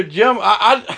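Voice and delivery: high pleading whine, excuses tumbling out; mock a guilty man pleading he couldn't help it; hammed-up high whine of a man making excuses to the preacher; whiny excuse. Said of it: "don't come up to me and say".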